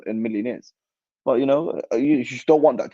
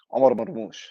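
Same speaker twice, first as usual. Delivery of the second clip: excited hype call; 11 semitones higher than usual. Real, not acted. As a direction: hype him up like a fan in the stands. Hyping up his player.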